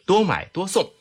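radio ad read. Acted. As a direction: sell it like a radio infomercial. Host reads product pitch.

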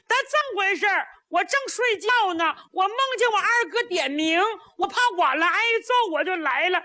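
a naive lad babbling his side of the story; simple-minded Niu Tong. A narrator's reading. Niu Tong explaining the fight to the old general, high and rambling.

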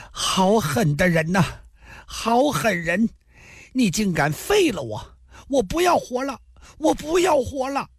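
put-on high wailing child's voice; crying and shouting. A narrator's reading. Crippled boy wailing at the swordsman who ruined him, high crying shout. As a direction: bawl it out like a spoilt crippled boy. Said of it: "边哭边喊道".

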